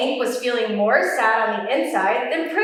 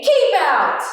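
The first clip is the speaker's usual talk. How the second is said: louder cranky shout; grumpy yell; 3 semitones higher, 5 dB louder than usual. Acted. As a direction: order them away. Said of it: "yelled Hank".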